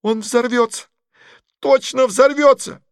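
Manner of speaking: can't hold it in any longer; panicked cry. Acted. Masha cries out in panic watching the film. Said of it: "не выдержала Маша".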